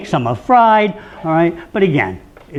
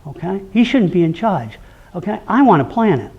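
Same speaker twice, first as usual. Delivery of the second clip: upset daughter; 5 semitones higher, 4 dB louder than usual. Retold or imitated. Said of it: "She says".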